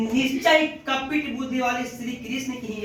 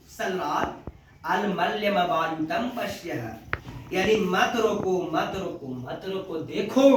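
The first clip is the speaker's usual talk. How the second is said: Karna's calm refusal; 5 semitones lower, 3 dB quieter than usual. Retold or imitated. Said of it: "तो कान बोला कि".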